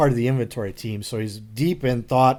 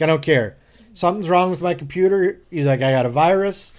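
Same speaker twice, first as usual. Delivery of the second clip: worked-up demand; 4 semitones higher than usual. Retold or imitated. Coworker demanding help, worked up.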